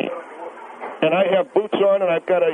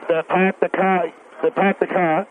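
a touch of New England accent, r dropped on car; lightly imitated New England accent. Shown as a demonstration. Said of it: "It doesn't have that New England".

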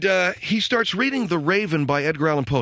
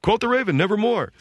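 high, sing-song mock teen recital of "Quote the Raven, nevermore"; teenager reading; 6 semitones higher than usual. Son recites to the family, high sing-song mock reading. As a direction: chirp it like a careless teen. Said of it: "he's reading it like a teenager".

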